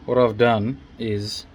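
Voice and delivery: talking while lying on back; strained voice from under car. Real, not acted. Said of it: "I'm under the car now".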